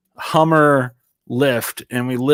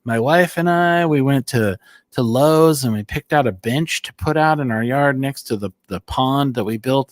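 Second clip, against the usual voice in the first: mock cheery coworker recapping a dull weekend; imitating a coworker; 2 semitones higher than usual. Coworker telling about his weekend, lightly mimicked.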